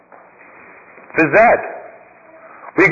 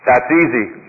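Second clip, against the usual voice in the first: lower, calm monk voice; a lightly voiced, lowered sage; wise old monk; 8 semitones lower, slower than usual. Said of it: "The monk says to the young man".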